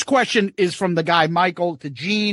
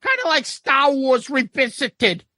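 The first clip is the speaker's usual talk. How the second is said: Ace voice; 5 semitones higher than usual. Retold or imitated. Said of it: "then they asked Ace".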